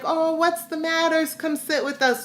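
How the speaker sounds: lightly imitating concerned, high-pitched coaxing; retold sympathetic cooing. People retold consoling her, inviting her.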